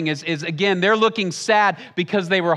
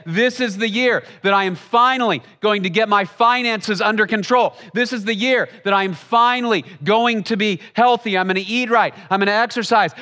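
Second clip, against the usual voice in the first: higher, emphatic New Year's resolve; great hope; 4 semitones higher than usual. Acted. You at New Year's vowing change, acted great hope. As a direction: declare each resolution with acted hopeful determination. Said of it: "always a time of great hope".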